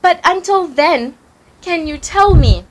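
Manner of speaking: put-on high-pitched child voice questioning a parent; eager child. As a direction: ask brightly, rising high on the final question. Child character answers and questions father.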